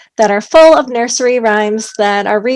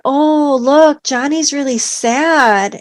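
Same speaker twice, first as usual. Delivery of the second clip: sad sympathetic voice; 4 semitones higher, much slower than usual. Shown as a demonstration. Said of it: "in the intonation that you're saying".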